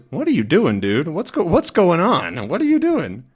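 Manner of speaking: high, rising outraged goat voice; indignant goat. Acted. Goat protesting at Snowy pulling the stake, high indignant voice. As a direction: squawk it like a startled goat. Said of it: "as the sheep goes".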